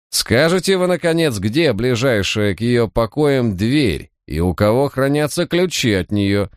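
high, impatient lady demanding an answer; piercing, sharp voice. A narrator's reading. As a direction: start very high, press the official sharply. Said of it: "её пронзительный, резкий голос". (пронзительно, требовательно)

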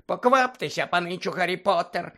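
Dobby the house-elf squeaking at Harry; squeaky house-elf. Acted. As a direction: squeak it like an anxious little elf. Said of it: "пищав Добі".

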